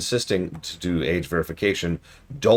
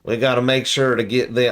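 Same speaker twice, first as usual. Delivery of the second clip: hammed-up Southern drawl, slow, higher and louder; mock Southern moralizer, dragging every word; Southern preacher parody for the children; weird southern accent; 7 semitones higher, 5 dB louder, slower than usual. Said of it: "I'm going with this weird southern accent".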